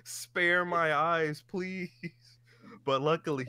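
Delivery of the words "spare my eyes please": high, drawn-out comic begging; mock pleading. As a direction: beg for mercy in an overdone high voice. Mock begging at an unwanted scene.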